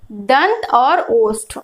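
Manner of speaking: "दंत" held long and leaned on, "और ओष्ठ" slow after it; teacher naming the parts; slow, stressed terms. Shown as a demonstration. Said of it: "व के लिए प्रयोग हो रहे हैं".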